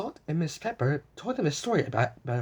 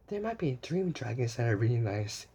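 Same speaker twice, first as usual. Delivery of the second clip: soft, low sleepy murmur; 5 semitones lower, 5 dB quieter than usual. A narrator's reading. Blue drifting off to sleep, soft murmur. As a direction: murmur it half asleep. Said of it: "she murmured".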